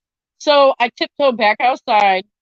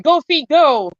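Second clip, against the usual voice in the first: mock urgent cry; 5 semitones higher, 4 dB louder, slower than usual. Acting out the bug's frantic cry.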